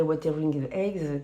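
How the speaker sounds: "Wuthering Heights" in a playful French-flavoured English accent; self-mocking English accent. Shown as a demonstration. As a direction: say the title with a jokey English accent. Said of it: "avec mon super accent anglais".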